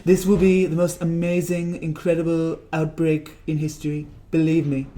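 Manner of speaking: lightly voiced Trump bragging, slow; a touch of Trump boasting, drawn out; Trump impression. Vlogger's Trump boasts about the outbreak, light impression. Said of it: "I do impressions on the side".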